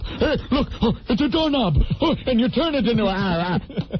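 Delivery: lightly hammed-up prop comic riffing; manic Robin Williams. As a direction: riff on a prop, mock-manic. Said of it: "he's going off on every little prop".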